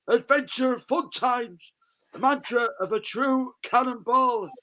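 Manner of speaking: mock-epic product read; dramatic can reading. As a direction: read the label like a hammed-up advert. Reads can text as performance.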